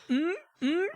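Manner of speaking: laughing. Real, not acted. Laughing hums.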